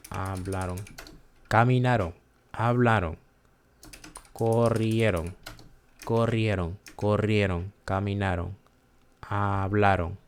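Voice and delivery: hablaron, caminaron, corrieron with unstressed final "ron"; careful word drill, endings of hablaron and corrieron left light; unaccented O. Shown as a demonstration. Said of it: "not accent O will sound like".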